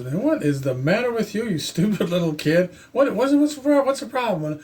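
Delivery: a hint of an irritated older brother; peeved big brother. Woken brother scolding the kid, mildly annoyed. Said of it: "pretty peeved at me".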